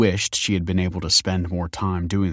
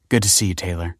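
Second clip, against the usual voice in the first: smiling; faster than usual. Acted. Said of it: "smiled Kelsey".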